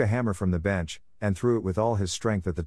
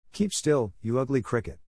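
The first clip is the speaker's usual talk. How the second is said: angry puppet cry; 4 semitones higher than usual. Acted. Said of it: "cried Pinocchio".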